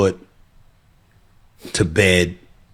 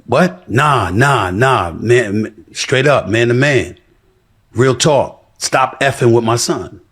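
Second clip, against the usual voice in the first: heated reply; 4 semitones higher, 5 dB louder, slower than usual. Retold or imitated. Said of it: "I said".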